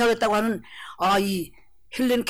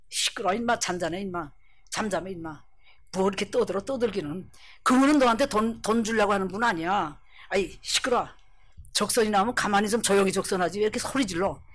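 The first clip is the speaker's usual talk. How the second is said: scolding; 2 semitones lower than usual. Acted. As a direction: shush him with mild contempt. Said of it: "와서 구박만 한다".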